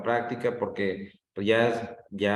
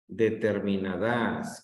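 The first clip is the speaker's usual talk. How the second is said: "Determinadas" lento, como aguda: determinaDÁS; acento en DAS; much slower than usual. Shown as a demonstration. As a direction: carga la última sílaba, DAS, de "Determinadas". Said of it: "que la pongo en das". ("Determinadas" con el golpe de voz en DAS)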